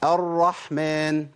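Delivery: الرحمن drawn out, recited slowly with a firm r; clear Quran example. Shown as a demonstration. Tajweed teacher giving students an example, slow clear recitation. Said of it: "نجيب مثال بقى للتجديد".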